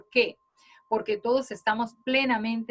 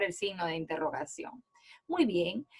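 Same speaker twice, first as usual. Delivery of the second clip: whispering; 4 semitones lower, 7 dB quieter than usual. Real, not acted. Teacher drops to whisper.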